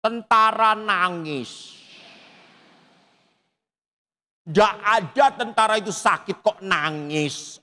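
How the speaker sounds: high, slow mock teasing of a crying soldier father; teasing jab. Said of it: "langsung nyindir ayah saya". (sindiran meledek dengan nada tinggi)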